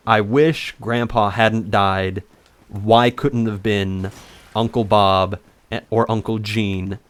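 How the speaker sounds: slow, unemotional mild bitterness; cold and calculated. Retold or imitated. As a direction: retell it slowly, coldly measured. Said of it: "He was cold and calculated".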